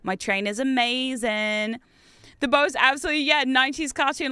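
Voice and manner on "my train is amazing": mock proud boast. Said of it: "and be like".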